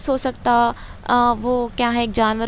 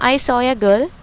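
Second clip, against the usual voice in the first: put-on I saw a girl, very slowly; slow dictation; 4 dB louder, much slower than usual. Shown as a demonstration. Teacher dictating the example sentence to students. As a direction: dictate it word by word. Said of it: "यहाँ पे जैसा बोल रहा हूँ देखो".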